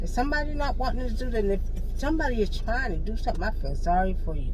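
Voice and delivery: fast, rushed warning; hurried warning. Real, not acted. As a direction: race through the warning. Warning people off.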